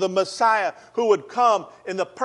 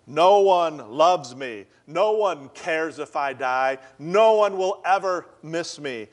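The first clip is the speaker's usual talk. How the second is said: despairing quote; slower than usual. Retold or imitated. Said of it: "the officer said this man's despair was painfully evident".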